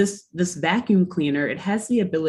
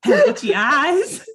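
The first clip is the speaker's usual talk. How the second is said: snake oil seller; 5 semitones higher than usual. Acted. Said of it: "I'm just gonna keep impersonating".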